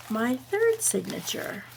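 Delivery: hushed proud reveal; soft, slow reveal. Real, not acted. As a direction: let "my third signature" land quietly, drawn out. Counting off signatures in a reveal.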